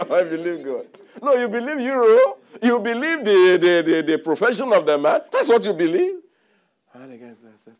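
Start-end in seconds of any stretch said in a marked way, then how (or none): 0.1-0.9 loud mocking repeat of I believe God, higher; mocking echo. Preacher mocks a believer's claim, loud and scornful. 1.2-6.2 high, loud scolding retort; loud rebuke. Acted. Preacher scolds those who trust money, loud rebuke.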